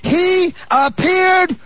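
very slow, high, ringing proclamation; climactic preaching. Real, not acted. Preacher reveals whom Jesus appeared to, climactic proclamation. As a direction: stretch the words out high as the sermon's climax.

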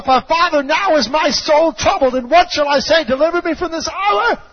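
high, impassioned cry of prayer; anguished cry. Retold or imitated. Preacher voices Jesus praying in anguish, high impassioned cry. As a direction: cry out to the Father, pitch climbing. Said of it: "He cried out from the anguish of His soul".

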